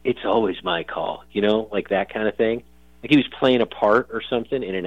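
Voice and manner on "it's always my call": slow, lightly hammed action hero line; a touch of a cheesy movie tough guy. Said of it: "like, some cheesy movie voice".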